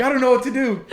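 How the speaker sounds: high, loud imitation of someone panicking; mock tearful freak-out. Girl on the phone with her dad after a crash, mock tearful freak-out. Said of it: "freaking out, in tears".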